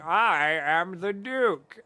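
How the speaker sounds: slow, grand self-announcement; lightly voiced lordly duke; pompous duke. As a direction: draw it out like a self-important noble. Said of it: "he's like".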